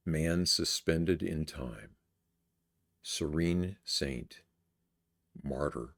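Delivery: slow, measured poem recital with long pauses; poetry reading. Acted. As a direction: let each short phrase hang in silence. Reads own poem aloud.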